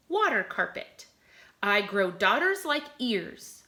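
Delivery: put-on reading a poem to children. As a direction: read each clue like a puzzle. Reads riddle poem aloud.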